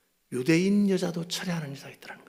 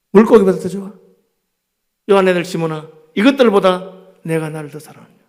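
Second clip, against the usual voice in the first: loud teasing question; 4 semitones higher, 10 dB louder than usual. Acted. Jesus teasingly asks Peter.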